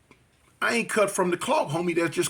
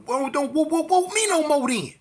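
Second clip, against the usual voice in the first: mocking comeback; 9 semitones higher than usual. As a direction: throw their chant back at them. Teller mocks the gang chant.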